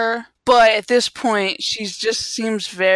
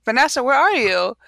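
calling out; 6 semitones higher, 6 dB louder than usual. Pretend. Imagined people calling for her.

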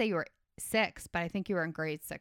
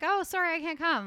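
high, louder mock apology; fake sick girlfriend; 10 semitones higher, 4 dB louder than usual. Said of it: "she's like".

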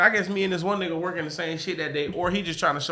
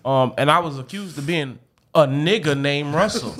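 entitled customer; 3 semitones lower than usual. Pretend. Acting an offended customer complaint.

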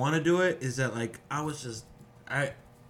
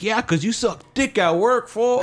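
higher, excited coworker voice; 9 semitones higher than usual. Retold or imitated. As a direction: hype up the new guy like a buddy. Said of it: "He's like".

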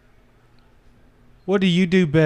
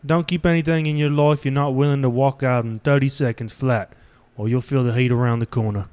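a hammed-up British tough-guy accent, lightly done; shitty put-on British accent. Man telling his partner old advice in a bad British accent. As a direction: fake a rough British accent for the bit. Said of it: "The last shitty accent I can pull out".

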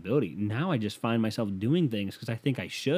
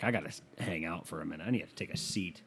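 mumbled aside; 4 semitones lower, 9 dB quieter than usual. Retold or imitated. Quoting himself in the bathroom.

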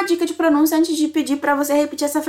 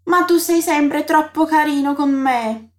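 slow quoted line; slower than usual. Shown as a demonstration. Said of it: "a Samantha solta".

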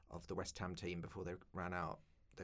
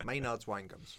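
laughing. Real, not acted. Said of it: "so it's making me laugh".

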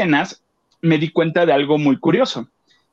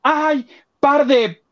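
a slow, drawn-out "Ay, par de" in a put-on voice; lightly voiced grumbling stagehand; drawn-out mock tsk; 9 semitones higher, much slower than usual. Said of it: "El señor apuntador volteó y dijo".

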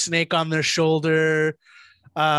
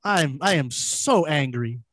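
slow, deliberate mock fury; slower than usual. S0 pretending outrage over a comment, slow mock fury. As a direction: drag out fake rage slowly. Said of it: "No, I'm kidding".

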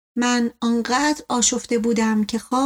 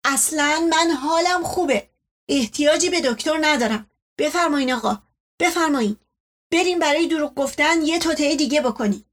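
louder, angry; 4 semitones higher than usual. Acted. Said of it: "با صدای بلندتری گفت".

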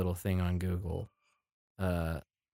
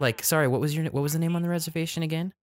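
high, snooty rude clerk; impatient snobbish receptionist; catty; 9 semitones higher than usual. Retold or imitated. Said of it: "She sounds, like, rude".

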